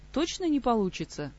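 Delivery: cling to a last hope; faint hope. Acted. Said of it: "со слабой надеждой переспросила".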